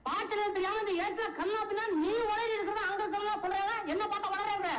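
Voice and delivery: high-pitched, indignant rant; aggrieved scolding. Acted. Humiliated poet blames the poem's writer, indignant. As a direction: pour out the grievance without stopping.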